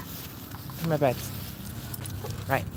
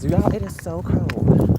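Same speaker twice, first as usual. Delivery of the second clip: loud, slow, higher moan about it is so cold; drawn-out complaint; 5 semitones higher, 6 dB louder, much slower than usual. Real, not acted. Owner moaning to her dogs about the cold, loud and slow. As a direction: stretch out the complaint about the chill.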